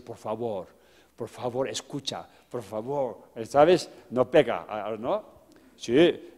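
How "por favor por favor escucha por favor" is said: softly voiced polite teacher; pleading teachers. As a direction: lower and soften it, lightly imitating a coaxing teacher. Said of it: "los profesores van a decir". (profesor que pide por favor en voz baja)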